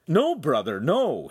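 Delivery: calm an angry brother urgently; pleading objection; urgent protest. A narrator's reading.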